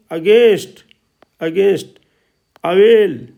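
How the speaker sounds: "अगेंस्ट", "अवेल" with a clear ए vowel; ए sound demo. Shown as a demonstration. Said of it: "ए की ध्वनि में". (ए की ध्वनि साफ़ बोलते हुए "अगेंस्ट", "अवेल")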